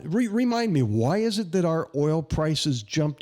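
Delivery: playing dumb to mock the policy; sarcastic. Real, not acted. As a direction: feign forgetting, dripping with sarcasm. Sarcastic jab at oil policy.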